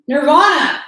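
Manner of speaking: loud high yell across the house; yelling the dog's name. Real, not acted. Yelling at her dog chasing the cat, high shout.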